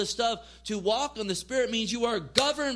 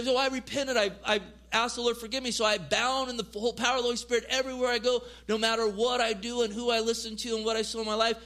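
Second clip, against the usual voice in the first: mock glib; faster than usual. Mocking shallow repentance.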